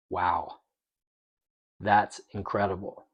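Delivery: hushed awe, retold in a low voice; quiet amazement. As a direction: recount being quietly stunned. Retold quiet amazement at wife's calm.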